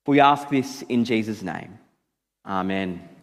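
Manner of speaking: low-pitched, measured public prayer. Real, not acted.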